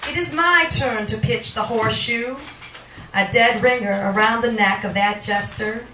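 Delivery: spoken word, rising to a questioning close; poetry reading. Acted. Poet answering the jester, brooding spoken word. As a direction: weigh every line like a verdict. Second poet performs poem.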